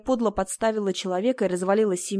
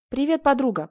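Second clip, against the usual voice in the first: put-on bright, higher and louder hello to an old friend; glad greeting; 6 semitones higher, 4 dB louder than usual. A narrator's reading. Friend hugging Marta in greeting, glad and raised. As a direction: greet her like a long-lost friend. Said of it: "поприветствовала она и обняла меня".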